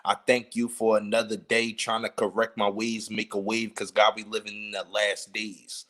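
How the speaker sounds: reciting rap lyrics a cappella, every word clear; unhurried lyric recital. Shown as a demonstration. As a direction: chill it out and take your time. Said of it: "I'm gonna take my time".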